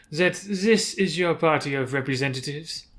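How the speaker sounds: put-on lightly French-accented drow matriarch; a touch of mock-French accent; awful French accent. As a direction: question it in a cruel, bad French accent. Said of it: "forgive me for this awful French accent".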